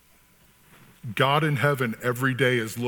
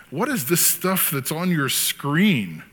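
模仿律师慢问; 4 semitones higher, slower than usual. Retold or imitated. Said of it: "he's interviewing this guy".

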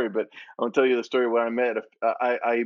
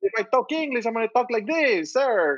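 put-on high-pitched caricatured Latino accent; mock Latino accent; 10 semitones higher than usual. What people expect from a Latino, exaggerated Latino accent. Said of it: "they're expecting me".

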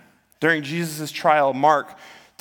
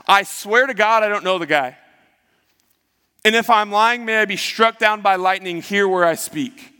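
raised, insistent mock oath; emphatic swearing; 5 semitones higher, 3 dB louder than usual. Peter denies knowing Jesus, emphatic retold swearing. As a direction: swear it higher and louder, desperate to be believed. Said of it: "began to invoke a curse on himself and to swear".

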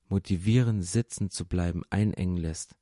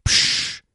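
loud, short "psch" shush; sharp hushing; 5 dB louder than usual. Acted. Bystanders silence Bartimäus, sharp shushing. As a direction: hush someone hard.

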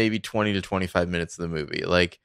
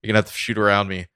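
louder and fast, a defiant rant; angry refusal; 2 semitones higher, 6 dB louder, faster than usual. Retold or imitated. Quoting a man who refuses to move his car, loud and fast. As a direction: bark it out, not budging an inch.

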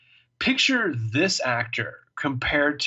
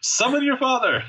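high, loud, haughty British command; pompous British; 14 semitones higher, 4 dB louder than usual. Retold or imitated. Podcast host quoting Peter Hastings in haughty mock British. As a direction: play the stern British patriarch, hammed up.

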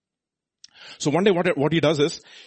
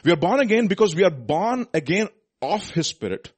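raised, emphatic preacher's voice; forceful preaching; 7 semitones higher, 6 dB louder than usual. Real, not acted. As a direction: press the point on the congregation.

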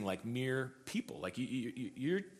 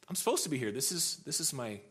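higher, mildly flustered objection; retold worked-up protest; 4 semitones higher than usual. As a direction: stand your ground, a little worked up. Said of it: "getting a little bit worked up".

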